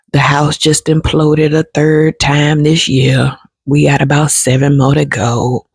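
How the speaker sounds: mock woe is me. Complainer whining to a friend, slow mock self-pity. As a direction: play the self-pitying complainer, lightly mocked. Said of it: "that's negative energy".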